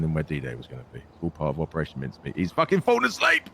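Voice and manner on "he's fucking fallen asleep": laughing outburst. Real, not acted. Partner goes quiet mid-explanation.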